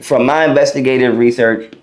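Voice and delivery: words broken by hiccups; fighting off the hiccups. Real, not acted. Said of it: "to get the hiccups".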